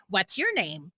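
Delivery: lightly imitated robot voice; flat, even robot voice. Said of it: "in this robot voice".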